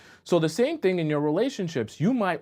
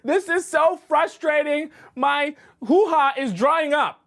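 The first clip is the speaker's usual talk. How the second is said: much higher and louder, slow, exasperated shriek; frustrated scream; 6 dB louder, slower than usual. Retold or imitated. Woman screaming at her date who can't understand, high frustrated shriek. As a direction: screech it out, fed up and begging. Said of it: "you yell and scream".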